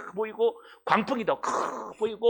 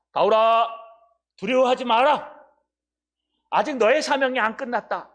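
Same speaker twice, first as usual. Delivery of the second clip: higher, louder angel voice reassuring Paul; angel comforting; 4 semitones higher, 4 dB louder than usual. Acted. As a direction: speak as the angel calming a frightened man. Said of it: "하는 소리가". (바울을 위로하는 천사의 높고 큰 목소리)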